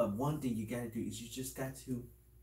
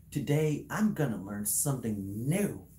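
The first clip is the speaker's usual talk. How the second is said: louder, slowing into a drawn-out finish; upbeat declaration; 5 dB louder, slower than usual. Acted. Showing kids what to tell parents and teachers, upbeat and emphatic. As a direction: proclaim it with emphatic, swooping pitch.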